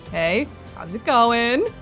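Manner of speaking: slow, sarcastic casual greeting; drawn-out fake friendliness; mock casual. Joking casual villain greeting.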